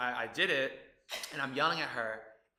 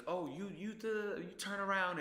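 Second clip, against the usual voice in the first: retold yell; 8 semitones higher than usual. Model recalls yelling at the star on set, mild mock yell. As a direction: imitate yelling without raising the volume. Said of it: "I remember I was yelling at her".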